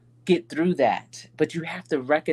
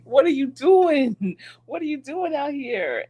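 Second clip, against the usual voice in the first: imitating husband; 12 semitones higher, 4 dB louder than usual. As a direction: play the husband catching her out. Husband catches her in kitchen.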